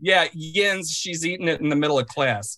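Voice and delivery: lightly put-on Pittsburgh accent. Shown as a demonstration. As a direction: slip into Pittsburgh vowels. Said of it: "in a Pittsburgh accent".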